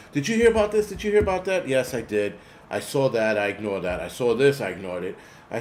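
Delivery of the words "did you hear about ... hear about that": high-pitched mock panic; mock frantic screaming. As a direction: imitate alarmists flipping out, pitched well up. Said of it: "start screaming, flipping, and carrying on".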